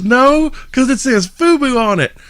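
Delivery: put-on high falsetto shop girl; counter girl. The counter girl explains the shirt in a high falsetto. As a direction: squeak the correction.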